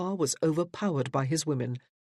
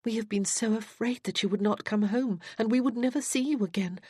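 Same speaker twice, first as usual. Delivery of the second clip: put-on higher, tender young woman's voice; gentle sister; 6 semitones higher than usual. Cassandra telling Judith of their fears, tender. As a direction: speak as the loving elder sister.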